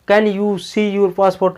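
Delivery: slow, easy casual ask; friendly casual. Shown as a demonstration. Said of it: "अब mister नहीं लगाते". (दोस्ताना अंदाज़ में)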